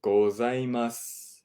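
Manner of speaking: Ohayo then pause, then slow gozaimasu; broken down. Shown as a demonstration. Teacher breaks the greeting into parts slowly. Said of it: "We'll break it down".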